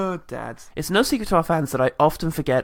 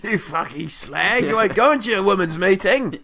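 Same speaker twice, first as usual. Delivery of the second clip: mock Cockney dad. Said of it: "Cockney dad accent".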